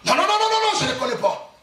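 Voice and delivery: flustered denial. Acted. Peter denying he knows Jesus, in a fluster.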